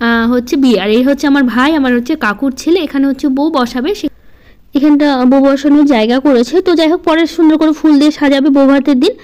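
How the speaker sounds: talking with a toothbrush in mouth; while brushing teeth. Real, not acted. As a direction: speak mid-brush, mouth half full. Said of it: "আর এখন আমি brush করছি".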